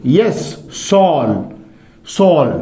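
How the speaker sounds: सॉल drawn out slowly after yes; slow model answer. Shown as a demonstration. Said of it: "क्या होगा ये?". (सॉल धीरे-धीरे, साफ़ उत्तर)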